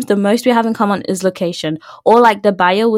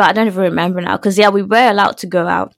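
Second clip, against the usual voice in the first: raspy, just-woke-up voice; rough raspy voice from sleep; raspy morning voice. Real, not acted. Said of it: "Excuse my raspy voice".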